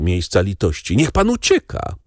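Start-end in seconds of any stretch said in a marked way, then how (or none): 1.0-1.9 high-pitched cry of pity; urgent call. A narrator's reading. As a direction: urge him to run, voice pitched up. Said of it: "zawołała panna Darmilly, w której sercu strach ustąpił". (wysokie, naglące wołanie)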